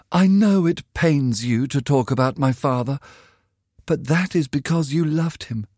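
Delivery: put-on a dreamy girl defending love over money; young girl Sybil. A narrator's reading.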